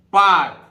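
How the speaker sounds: पार्क as "पाक" with a long आ; silent r. Shown as a demonstration. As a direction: say पार्क without the r. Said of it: "पार्क बोलेंगे". (पार्क को "पाक" बोलें)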